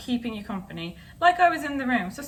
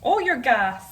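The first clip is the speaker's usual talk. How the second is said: mock Irish mother; 4 dB louder, slower than usual. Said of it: "That's not how she talks".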